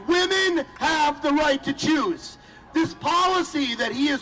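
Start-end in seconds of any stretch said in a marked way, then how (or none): 0.1-2.4 shouted rallying line. Real, not acted.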